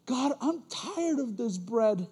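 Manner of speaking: slow, drawn-out grumble; mock weary complaint. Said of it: "Israel slowly started complaining".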